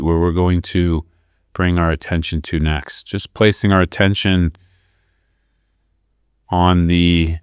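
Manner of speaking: calm, measured guidance with long pauses; guided meditation. Real, not acted. Teacher guiding listeners to breathe into the belly, guided meditation. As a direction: lead them through the breath, leaving room between phrases.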